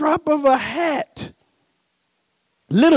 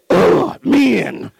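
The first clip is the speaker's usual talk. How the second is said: disgusted grunt, then a dismissive word; imitating a wife fed up with men; exasperated wife; 4 semitones lower than usual. Wife fed up with her dry-eyed husband, exasperated. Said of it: "And she said".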